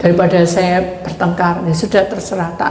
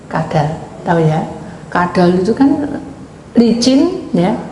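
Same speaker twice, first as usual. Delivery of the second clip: normal talking voice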